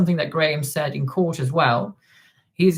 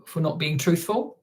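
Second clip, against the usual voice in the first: usual speaking voice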